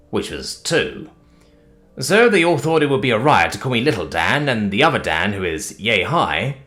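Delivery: lightly voiced easygoing rural man, neighbourly; a hint of a folksy country gent being hospitable; friendly country fellow. Dan welcoming the creature to the fire, lightly voiced friendly country man. Dan tells about Lemoyne.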